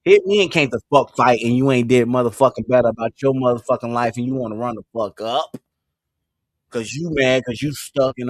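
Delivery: loud, heated and cursing; angry rant. Acted. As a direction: go off on them loudly. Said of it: "I have to use it right now".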